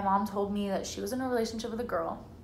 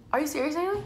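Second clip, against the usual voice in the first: higher, louder startled question; retold disbelief; 6 semitones higher, 5 dB louder, faster than usual. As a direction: imitate mom's incredulous reaction. Mom's disbelief in retold coming-out.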